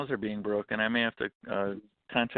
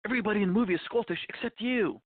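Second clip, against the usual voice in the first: higher, eager director voice; film director; 10 semitones higher than usual. Retold or imitated. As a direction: pitch it up like a director pitching a role. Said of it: "the director comes to him and goes".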